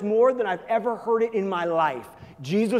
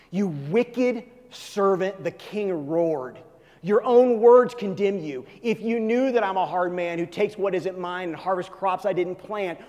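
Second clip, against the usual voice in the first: scripture reading. Acted. Reads the parable aloud.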